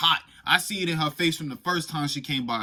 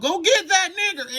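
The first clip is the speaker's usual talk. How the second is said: 1 slave master yell; 6 dB louder than usual. Retold or imitated. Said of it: "the slave master yelled".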